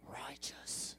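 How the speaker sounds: slow whispery surfer-dude "we are righteous"; Southern California. Pretend. Pastor joking to the church, in a hushed surfer-dude voice. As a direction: drawl it like a laid-back SoCal surfer. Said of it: "like Southern California person".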